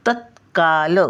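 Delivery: तत्काल with a brief stopped t before का; light half t. Shown as a demonstration. Teacher showing the half letter, तत्काल with a light t. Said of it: "तचा थोडासा उच्चार".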